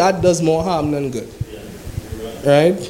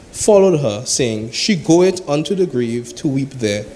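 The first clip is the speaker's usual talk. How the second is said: measured, solemn Bible reading; steady preacher reading scripture. Acted. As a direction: read the verses aloud to the congregation.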